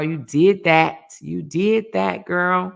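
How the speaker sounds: slow, drawn-out hype; hype cheer. Real, not acted. Host hyping up a viewer who beat cancer, cheering. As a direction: cheer her on, stretching each word.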